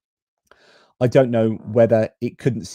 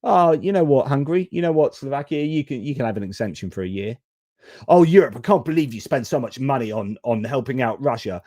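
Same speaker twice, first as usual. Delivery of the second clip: mock hypocritical US; 3 semitones higher than usual. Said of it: "And the U S is like".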